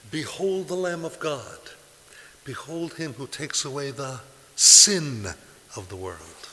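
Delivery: high, loud ringing proclamation; proclaimed. Shown as a demonstration. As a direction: cry it out like the Baptist pointing to Christ. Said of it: "We paraphrase it in Mass".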